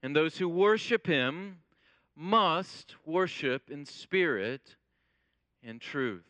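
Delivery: measured, reverent Bible reading; scripture reading. Acted. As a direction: read it like Scripture from the pulpit. Reads scripture before the sermon.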